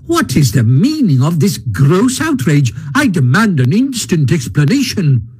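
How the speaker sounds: lightly voiced huffy, outraged toad; indignant Toad. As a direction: demand it with pompous outrage.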